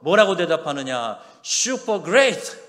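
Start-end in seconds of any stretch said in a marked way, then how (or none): 1.4-2.7 high, loud and drawn out with joy; super enthusiastic. Shown as a demonstration. Preacher teaching believers the joyful answer, excited. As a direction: shout it with overflowing delight. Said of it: "이렇게 대답하래요".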